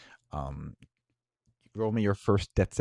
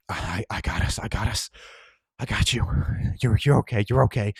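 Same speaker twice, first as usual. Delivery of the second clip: louder, earnest fatherly comfort; paternal reassurance; 6 dB louder than usual. Acted. Nick reassuring the dying kid, earnest and paternal. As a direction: hold him up like a father would. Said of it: "Sounding very paternal".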